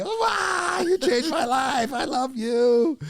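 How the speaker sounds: high squealing fan worship; gushing fangirl. Retold or imitated. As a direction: gush like a starstruck superfan. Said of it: "I turned into a, a Swiftie".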